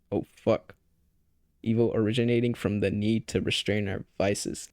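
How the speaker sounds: put-on steady read-aloud of an old text. Shown as a demonstration. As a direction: read it like proving you can read well. Reads hard book passage aloud.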